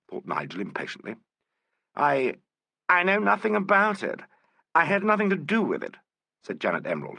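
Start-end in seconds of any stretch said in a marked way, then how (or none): 2.0-6.0 high, rising panic in her denial; frightened denial. A narrator's reading. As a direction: blurt it out, scared and cornered. Frightened suspect under questioning.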